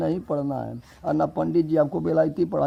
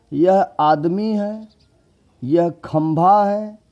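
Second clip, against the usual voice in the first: high, slow, loud claim; mock quiz claim; 6 semitones higher, 7 dB louder, slower than usual. Shown as a demonstration. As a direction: play the confused student. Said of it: "तिरपट बता रहे हैं". (ऊँचे स्वर में धीमा नाटकीय दावा)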